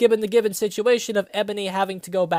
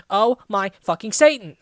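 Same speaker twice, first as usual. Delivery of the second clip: mock scream; 5 dB louder than usual. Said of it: "I screamed as I read it".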